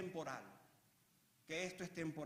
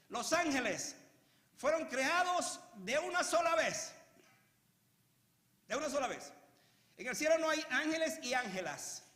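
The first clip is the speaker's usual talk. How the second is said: emphatic preaching; 7 semitones higher, 6 dB louder than usual. Real, not acted. Preacher teaching how angels were created, emphatic preaching.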